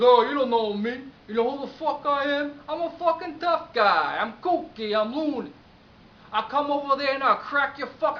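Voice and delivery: loud, high-pitched tough-guy tirade; blustering threat. Retold or imitated. Client threatening the agency owner, angry bluster. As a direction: imitate a hothead yelling threats.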